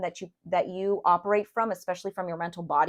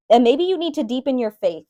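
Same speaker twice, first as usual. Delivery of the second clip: laughing; 5 semitones higher, 8 dB louder than usual. Real, not acted. Laughs starting the line.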